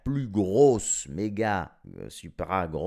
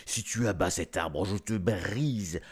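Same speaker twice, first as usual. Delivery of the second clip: lightly voiced giant, mock menacing; threatening giant; 2 semitones lower than usual. Giant warning the child off his tree, mock menacing. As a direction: growl the threat, half joking.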